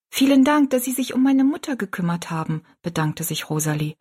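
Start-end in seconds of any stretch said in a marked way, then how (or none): 0.1-2.6 put-on grateful girl. A narrator's reading.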